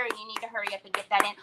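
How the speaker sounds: usual speaking voice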